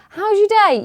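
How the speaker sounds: a hammed-up cheery till greeting; mocking a shop assistant's forced chirpiness. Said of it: "when you go into a shop".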